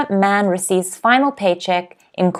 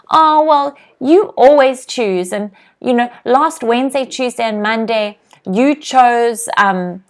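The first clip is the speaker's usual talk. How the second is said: petty complaint; 3 semitones higher than usual. Retold or imitated. Teacher acting out a petty dinner quarrel with her boyfriend, nagging. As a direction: pile on old grievances in a put-upon tone. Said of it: "That means I'm being petty".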